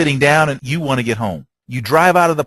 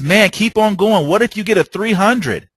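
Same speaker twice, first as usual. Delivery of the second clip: cheering onlooker; 6 semitones higher than usual. Retold or imitated. Bystander urging the bowler toward a perfect game, excited.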